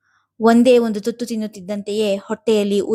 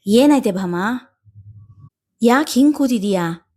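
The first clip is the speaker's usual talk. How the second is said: concerned asking. A narrator's reading. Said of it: "ಕಂಡು ಕೇಳಿದರು".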